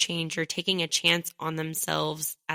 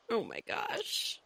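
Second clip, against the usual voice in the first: whisper; 2 semitones higher, 9 dB quieter, slower than usual. Real, not acted. Moved by the story.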